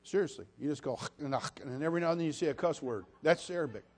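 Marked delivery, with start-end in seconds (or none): none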